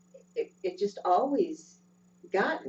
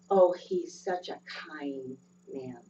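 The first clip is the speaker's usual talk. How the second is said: gentle imitation; 3 semitones lower, slower than usual. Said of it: "he would say it with such gentleness".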